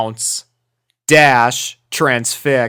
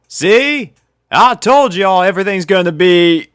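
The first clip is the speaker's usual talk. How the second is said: lightly voiced country girl, higher and louder; Applejack; 8 semitones higher, 6 dB louder than usual. A narrator's reading. Applejack telling friends she was right, lightly voiced country girl.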